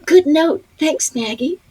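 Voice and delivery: high-pitched grateful reply; re-enacted sheepish thanks. Actress thanking co-star for the note, high re-enacted thanks. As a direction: thank her in a small high voice.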